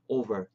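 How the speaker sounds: "over" with V, lips never touching; clear V sound. Shown as a demonstration. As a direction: say "over" with a true V, not a B. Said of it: "V 사운드 절대로 양입술 닿으면 안 된다는 거".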